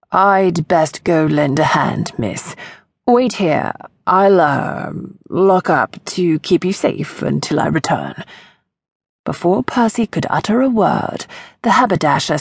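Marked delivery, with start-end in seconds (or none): 0.1-8.2 loud voice. Acted. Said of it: "he said in a loud voice".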